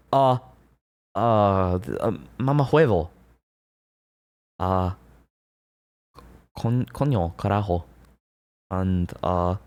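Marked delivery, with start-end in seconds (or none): 1.8-3.1 mama huevo tried out in Spanish for chat; Spanish curse on request. Shown as a demonstration. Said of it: "Can you curse in Spanish?". 6.6-7.8 mama huevo tried out in Spanish for chat; Spanish curse on request. Shown as a demonstration. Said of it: "Can you curse in Spanish?".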